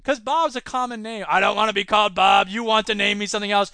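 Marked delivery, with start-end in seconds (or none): 1.3-3.7 robot voice. Acted. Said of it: "Bob the robot".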